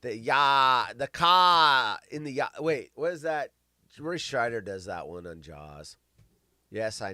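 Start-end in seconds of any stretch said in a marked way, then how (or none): 0.0-2.5 drawn-out dropped-R Boston vowels; exaggerated Boston imitation; Boston accent. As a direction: echo a mock Boston accent, leaning on the vowels.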